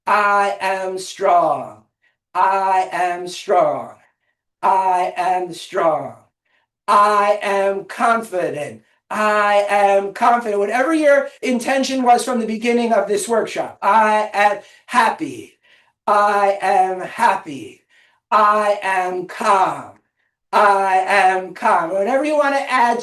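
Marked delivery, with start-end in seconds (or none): 0.1-10.6 slow, evenly spaced incantation; rhythmic affirmation. Shown as a demonstration. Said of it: "if you wanna change it". 13.8-21.9 slow, evenly spaced incantation; rhythmic affirmation. Shown as a demonstration. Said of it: "if you wanna change it".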